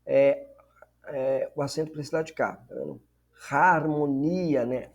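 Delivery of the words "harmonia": "Harmonia" drawn out with an aspirated H at the start; slow "Harmonia" with audible initial aspiration; rough breathing. Shown as a demonstration. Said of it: "aspiração áspera".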